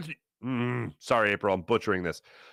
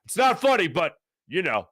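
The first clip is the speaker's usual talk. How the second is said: Terry Francona, amused; 5 semitones higher than usual. Retold or imitated. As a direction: imitate someone barely holding back laughter. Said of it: "as he's laughing his ass off".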